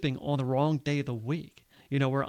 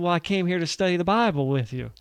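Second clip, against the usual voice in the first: put-on louder, higher deep Southern accent; quoting oneself in a strong Southern accent; 4 semitones higher, 5 dB louder than usual. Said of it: "I had this deep Southern accent".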